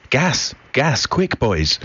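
high-pitched warning cry without much added volume; acted urgent call-out; urgent alarm. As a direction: sound the alarm to your comrades, pitch jumping high. Acted gas alarm in poem.

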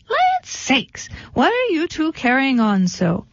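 very high startled goose voice; a goose over her fence, calling to the panicked pair. Acted. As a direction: squawk it out as an old goose. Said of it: "Goosey Lucy leaned over her fence and said".

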